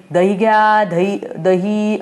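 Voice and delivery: slow sing-song hawker's cry; mock curd seller call. Anu playing a curd seller, slow vendor call.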